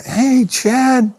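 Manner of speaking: light high friendly hello; a touch of a cheery Neil greeting; Neil's greeting. Retold or imitated. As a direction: greet him like an old friend. Neil greets him warmly.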